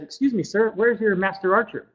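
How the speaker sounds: lightly voiced young man seeking directions; young archer asking. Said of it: "he starts asking around. He says".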